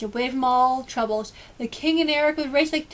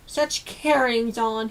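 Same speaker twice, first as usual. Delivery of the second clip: disgusted mutter; much slower than usual. Acted. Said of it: "he muttered in disgust".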